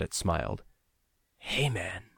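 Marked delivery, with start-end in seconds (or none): 1.4-2.1 put-on a weak, cracked old friend's voice; thin and worn, barely there. Old friend in the dark greets narrator, cracked and weak. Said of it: "The voice was cracked, weak, but familiar".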